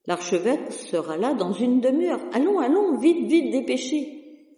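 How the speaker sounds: a harried curé scolding the sacristan, rushing him off; flustered priest. Acted. Curé scolds the sacristan about the burnt cross, rising to frantic panic.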